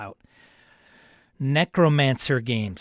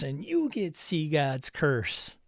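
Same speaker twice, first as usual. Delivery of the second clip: talk-show giveaway again; slower than usual. Pretend. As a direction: point at the next guest, slow and grand. Giveaway announcement repeated to next person.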